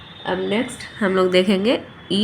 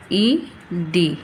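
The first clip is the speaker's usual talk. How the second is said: slow phonics blend; 2 semitones lower, much slower than usual. Shown as a demonstration. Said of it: "phonic का sound करके break करके पढ़ेंगे".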